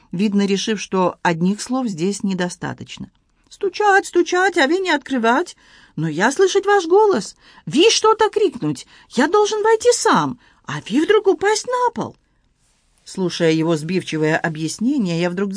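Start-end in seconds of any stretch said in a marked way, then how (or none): 3.5-12.2 excited Frenchman in broken Russian, high; Antoine voice. Acted. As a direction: play the flustered Frenchman, pitched high. Antoine explaining, flustered.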